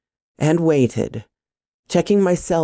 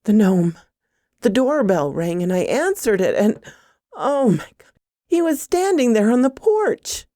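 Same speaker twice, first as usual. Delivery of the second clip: alarm building to a high pitch; panicked report, climbing higher as it goes; rising panic; 7 semitones higher than usual. A narrator's reading. Woman telling her boyfriend the gnome was at the door, panicked. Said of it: "I began hyperventilating".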